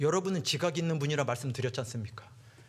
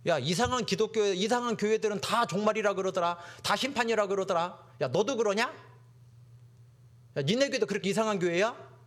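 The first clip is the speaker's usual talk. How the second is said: mocking classmate; 6 semitones higher than usual. Preacher voices mocking classmates.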